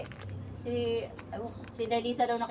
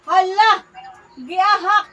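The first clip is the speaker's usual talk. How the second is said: surprised; 7 semitones higher, 9 dB louder, slower than usual. Real, not acted. Reacting to the phone call.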